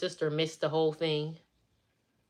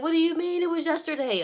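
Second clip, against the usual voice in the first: high-pitched imitation of disbelief; incredulous; 11 semitones higher than usual. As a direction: retell the sister's stunned question. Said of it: "She could not believe it".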